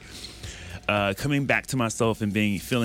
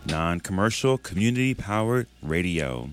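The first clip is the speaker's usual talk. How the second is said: radio announcer read. Shown as a demonstration. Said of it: "my sexy commercial voice".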